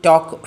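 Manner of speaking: ടോക്ക് with no L before the K; silent L. Shown as a demonstration. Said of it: "ടോക്കിൽ മാത്രം ല sound ഇല്ല". (ടോക്ക്, ല ഉച്ചരിക്കാതെ)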